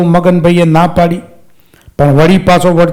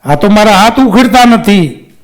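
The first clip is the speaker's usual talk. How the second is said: calling for help; 3 semitones higher than usual. Acted. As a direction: shout to the ghost, hands stuck. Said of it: "પછી બૂમ પાડી".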